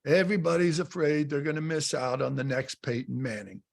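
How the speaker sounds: put-on a light New Jersey accent, quoting the coach; lightly put-on New Jersey accent, imitating Bill Parcells; Bill Parcells' New Jersey accent. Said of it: "in his New Jersey accent".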